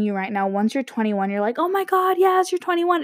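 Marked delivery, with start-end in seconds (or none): 1.6-3.0 mock excitement. Mocks excitement about turning 21.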